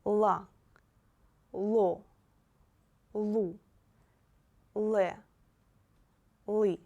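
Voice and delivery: La, lo, lu, le, li read out loud and clear, one syllable at a time; loud, careful reading of La, lo, lu, le, li. Shown as a demonstration. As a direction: model each syllable crisply for the class. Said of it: "First line".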